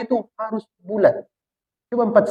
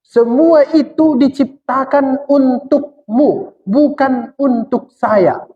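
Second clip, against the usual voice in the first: slow, raised and solemn as God speaking; God declaring calmly to man, slightly higher; 4 semitones higher, much slower than usual. Acted. Preacher voicing God to his listeners, slow and solemn. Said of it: "kata Tuhan".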